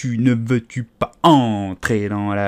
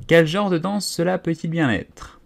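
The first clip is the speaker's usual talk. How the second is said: raised pitch, wondering question; higher-voiced, puzzled Alice; curious question; 6 semitones higher than usual. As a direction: ask with open curiosity.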